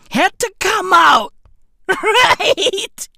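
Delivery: high, loud, laughing; laughing shout. Real, not acted. Comedian laughs at the vodka makers' panic, laughing shout. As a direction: crack up while yelling it.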